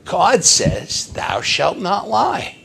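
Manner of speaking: mock-tearful child, jumping high; acted tearful protest; choking back tears. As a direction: plead like a little boy near tears. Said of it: "choking back some tears".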